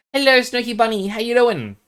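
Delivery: put-on high baby-talk greeting; high sing-song pet greeting; cute pet voice. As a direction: coo up high at the bunny.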